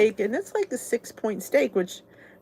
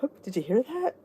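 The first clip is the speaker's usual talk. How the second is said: laughing; 3 semitones higher, 5 dB quieter than usual. Retold or imitated. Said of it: "I'm like".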